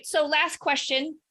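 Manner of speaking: mock-serious buildup, slowed at first; sarcastic. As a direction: tease it as a fake tough question. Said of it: "I'm being sarcastic".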